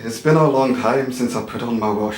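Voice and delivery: lightly voiced Irish accent; a hint of Irish lilt. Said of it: "quick blast of your Irish".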